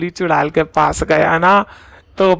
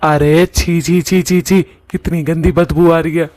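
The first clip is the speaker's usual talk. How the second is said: disgusted. Acted. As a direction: recoil from the stench. Reacting to a foul smell.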